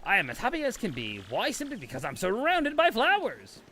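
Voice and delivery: bright, chirpy storybook voice; sing-song greeter; cheery flower-loving character. Acted. To Mario, a cheery character praising flowers.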